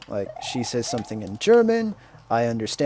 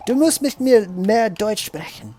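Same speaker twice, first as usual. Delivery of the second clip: higher, slower quoting of his wife's German; imitating wife; 9 semitones higher, 4 dB louder than usual. Wife urging him to speak more German, pitched-up nagging imitation. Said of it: "she always goes".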